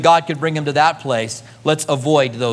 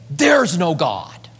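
slow, even "There's no God"; flat assertion; much slower than usual. Retold or imitated. Preacher quoting an atheist, slow and plain. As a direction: state it plainly and slowly.

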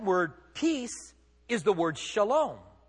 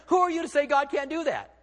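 raised, high, ringing challenge; preaching shout; 7 semitones higher than usual. Real, not acted. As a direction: throw the question at them full voice.

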